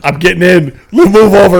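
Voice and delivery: high loud goofy troll. Pretend. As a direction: shove in as a pushy little troll. Voicing the troll.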